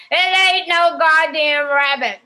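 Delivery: hoger en harder, traag uitgesproken; mad outburst. Retold or imitated. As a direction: boos uitvallen, hoger en harder. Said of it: "Winnie suddenly gets really mad".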